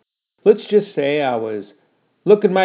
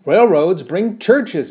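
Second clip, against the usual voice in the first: arguing; 5 semitones higher, 6 dB louder, much slower than usual. Acted. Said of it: "I argued".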